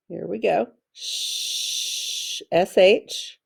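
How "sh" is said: "Sh" as a long, soft hush; sounded-out digraph. Shown as a demonstration. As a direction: hold "Sh" as a pure sound without voice. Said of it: "Let's tap that out".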